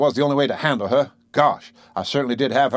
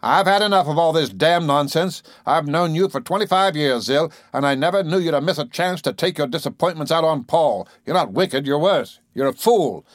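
raised, cruel scolding voice; 3 semitones higher than usual. Acted. Husband berates his wife's friend Zillah, cruel and raised. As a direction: lash into her without mercy. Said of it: "his voice was cruel".

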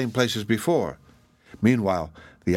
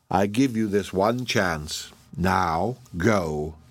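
a fateful beast laying down terms; ominous crocodile voice. Acted. Crocodile pronounces the spell.

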